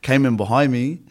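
real laughter breaking up the words; high, loud start, laughing through it; laughing while talking. Real, not acted. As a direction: try to carry on the story through laughter. Laughing at himself after deep voice.

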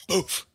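drawn-out "boof" sound effect; imitated lurch noise. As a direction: voice the boat's sudden jolt. Imitates the boat suddenly lurching.

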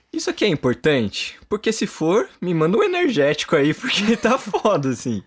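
tired plea, laughing through it; excited. Retold or imitated. Asking God, retold self-talk.

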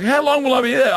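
put-on high-pitched little-boy question; questioning toddler. Toddler asking dad about the home, high child voice. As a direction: imitate a small child asking.

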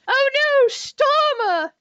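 high-pitched mock shout; Jem. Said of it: "Jem shouts".

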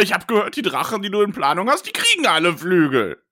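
a hint of a demanding teenager; whiny teenage son. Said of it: "Ich bin Glaurung".

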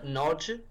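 Nodge as one syllable with a questioning rise; repeated pronunciation check. Shown as a demonstration. Co-host checking the surname, Nodge with rising tune. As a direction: echo Nodge, rhyming with Hodge, as a question. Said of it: "it's pronounced Nodge".

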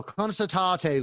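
drawn-out Meath Irish; slow Meath-accented Irish. Shown as a demonstration. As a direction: draw the vowels out in a Meath accent. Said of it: "with Meath accents".

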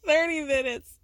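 thirty minutes laughed out, amused and disbelieving; laughing disbelief. Real, not acted. Repeating Janelle's line, laughing in disbelief. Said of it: "I love it".

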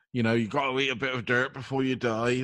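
put-on rustic country accent; folksy country accent. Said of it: "Maybe I haven't got to say it like that".

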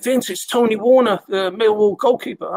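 put-on high-pitched amateur Scouse accent; Tony Warner, rough Scouse. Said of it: "This Scouse accent. I'm not good with Scouse accents, but I do it anyway".

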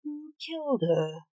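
slow, high-pitched angry question; understated roar, stretched out without extra volume; roared demand. A narrator's reading. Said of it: "roared Blake".

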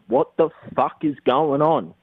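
mildly acted-out bewilderment; retold exasperated question. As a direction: replay insisting you are serious and baffled. Retelling his serious, baffled question.

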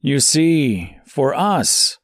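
preaching prophet stranger. A narrator's reading. Stranger explains the heretic.

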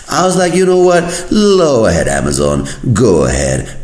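high, loud burst then settling; mock-excited giving in to temptation; hammed-up impulsive go-ahead; eager customer. Eager customer agrees to buy.

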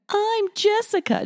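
very high-pitched mock introduction; joking fake introduction. Joke fake name, then admits kidding.

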